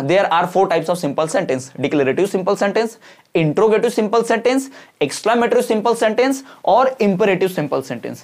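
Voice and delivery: each word drawn out for copying; slow dictation. Shown as a demonstration. Teacher dictating answer slowly. (धीमी गति से लिखवाना)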